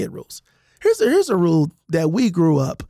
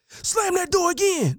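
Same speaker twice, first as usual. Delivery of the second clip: higher, slow, taunting dare; mock daring parent; 10 semitones higher, 3 dB quieter, slower than usual. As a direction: dare the kid to just try it. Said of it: "the inflection in their voices".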